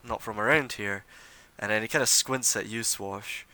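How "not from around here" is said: noble's flattery. Acted. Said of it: "He says".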